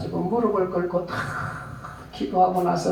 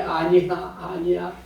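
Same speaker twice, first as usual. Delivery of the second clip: put-on boy's tender answer; slower than usual. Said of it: "소년이 하는 말이".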